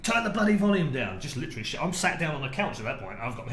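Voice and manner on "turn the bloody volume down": imitating an angry man's yell, higher and louder; retold angry yell. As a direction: bark it like the furious punter. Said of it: "He's like".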